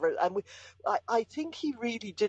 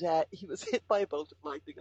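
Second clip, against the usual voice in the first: laughing while talking. Real, not acted. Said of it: "I know I sound like I'm laughing".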